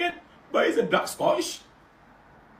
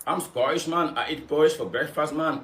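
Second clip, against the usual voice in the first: mock Scottish accent; 11 semitones lower than usual. Mocking a Black Scottish TikToker.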